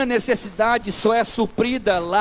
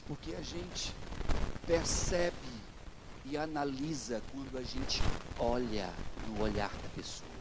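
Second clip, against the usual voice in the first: hushed low answer; 9 semitones lower, 13 dB quieter than usual. Retold or imitated. Pastor's own quoted wise answer.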